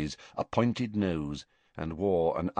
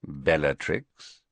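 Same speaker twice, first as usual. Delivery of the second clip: slow, lower mocking reply; 5 semitones lower, slower than usual. A narrator's reading. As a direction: draw out the name with a sneer. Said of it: "he replied, his thin mouth curling into a slightly mocking smile".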